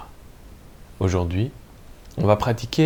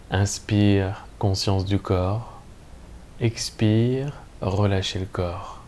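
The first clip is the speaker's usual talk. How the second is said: calm, measured Yoga Nidra guidance with long pauses; guided meditation. Acted. Teacher guiding listeners lying in Shavasana into lucid sleep, calm meditation voice. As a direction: lead listeners gently into rest, leaving room between phrases.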